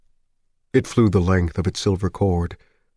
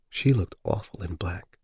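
toneless; 6 dB quieter than usual. Acted.

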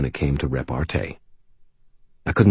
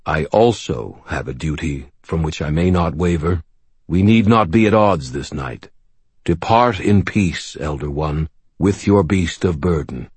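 gentle and respectful. Acted. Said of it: "gently and with respect".

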